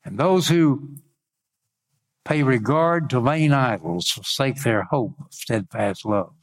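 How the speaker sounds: measured preacher's Bible reading; scripture reading. Acted. Preacher reads Jonah's story to congregation, declaimed lightly. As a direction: read the verse out deliberately, phrase by phrase.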